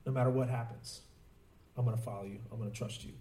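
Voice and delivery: low, hushed prayer; retold prayer. Youth praying to God in prison, quiet retold prayer. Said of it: "I remember praying".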